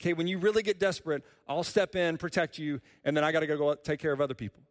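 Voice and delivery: quick, breezy, offhand tone; casual mock voice. Preacher voicing a part-time God, breezy and quick. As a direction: toss it off like a busy helper.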